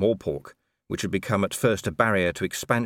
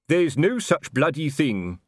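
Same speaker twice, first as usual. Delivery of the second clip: higher, slow indignant growl; angry denial; 7 semitones higher, 4 dB louder, slower than usual. A narrator's reading. Colon angrily denying the guild exists to Nobby. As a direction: refuse to believe it.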